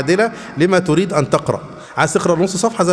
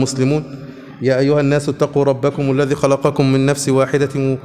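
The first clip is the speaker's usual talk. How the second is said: lower, even monotone recital of verses; Quran verse recital; 3 semitones lower than usual. Acted. Teacher quoting Quran verses to his students, even recital. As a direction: recite scripture evenly on one low note.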